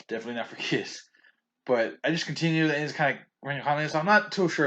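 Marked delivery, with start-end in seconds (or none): 0.1-1.1 laughing. Shown as a demonstration. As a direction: laugh it off on kids. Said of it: "Definitely not for kids, though".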